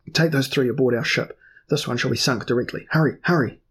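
loud commanding orders to his men; shouted orders. Acted. Earl orders his men aboard, loud and urgent. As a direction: bark the orders, hurrying them.

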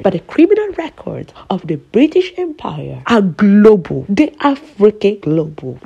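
loud, emphatic denunciation; impassioned. Real, not acted.

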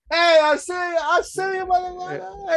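calling him out. Retold or imitated. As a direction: imitate yelling hey I see you at the thief. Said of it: "I wanted to say something".

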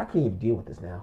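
low, soft retold resignation; overwhelmed. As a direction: act out a friend who has had enough. Acts out friend overwhelmed.

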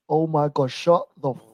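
ordinary delivery

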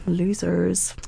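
whispered scornful aside. Real, not acted. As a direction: breathe it out with scorn. Mocking men making rules.

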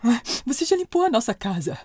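dwarf interrupted by his own sneeze; sneezy dwarf. A narrator's reading. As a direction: build up to a huge sneeze, then carry on. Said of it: "disse a Tim".

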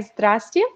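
"Здрасте" said the Russian way, ZDRAS-tye, stress on the first syllable; Russian greeting. Shown as a demonstration. Teaching the interviewer how to say hello in Russian, native pronunciation. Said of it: "So you could say".

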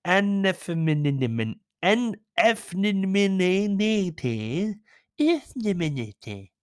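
Effeminate sounded out slowly, syllable by syllable, and mangled; sounding out a word. Real, not acted. Reading aloud to viewers, slowly sounding out a hard word. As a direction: drag out effeminate, guessing at each syllable. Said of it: "What the fuck's that word?".

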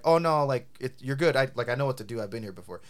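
politely smooth it over, easing down; kindly reassuring. Shown as a demonstration. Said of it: "is what I should have said".

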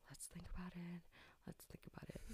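hushed, near-whispered retelling; subdued agreement. Retold or imitated. Agreeing with baby dad to think it over, hushed. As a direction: let it sink almost to a whisper.

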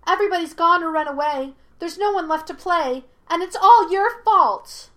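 put-on high, loud childish complaint; accusing monkey spirit. A narrator's reading. Monkey spirit blames Aang for the emptiness, shrieking accusation. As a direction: build to a shouted accusation.

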